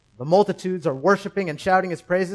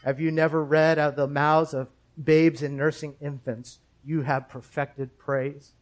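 understated, unruffled reply; cool and calm; 2 semitones lower than usual. Acted. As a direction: answer coolly, without any heat. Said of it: "coolly and calmly".

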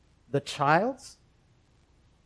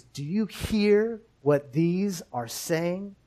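slow, measured accusing question; mildly accusing; 4 dB quieter, slower than usual. Acted. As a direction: draw out the question with understated accusation. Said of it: "they accusingly ask Jesus".

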